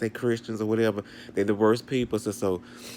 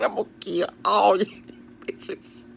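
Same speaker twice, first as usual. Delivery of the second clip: whispered threat; 8 semitones higher than usual. Retold or imitated. Retold threat ending in whisper.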